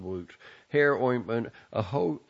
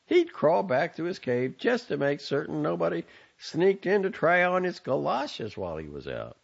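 louder, scornful tirade; exasperated son; 6 semitones higher, 4 dB louder than usual. A narrator's reading. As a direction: scold her with scornful exasperation. Son berates mother.

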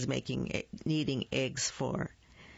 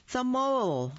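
high reveal; 8 semitones higher, 3 dB louder than usual. A narrator's reading. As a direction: jump up high on the mole. Dramatic reveal of next animal.

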